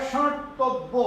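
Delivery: সর্তব্য said slowly with a plain s sound; drawn-out সর্তব্য, each sound clear; correct pronunciation. Shown as a demonstration. Teacher modelling the right sound for the class, slow and careful. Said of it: "এর উচ্চারণ হবে".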